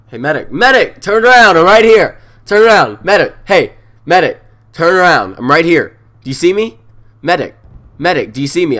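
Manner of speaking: high, loud calls for a medic; man down shout. Real, not acted. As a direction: yell desperately for help. Calling a medic to revive.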